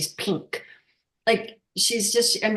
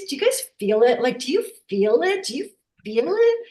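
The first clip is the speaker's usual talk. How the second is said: rising excitement; 6 semitones higher than usual. Retold or imitated. Asking group if they feel God.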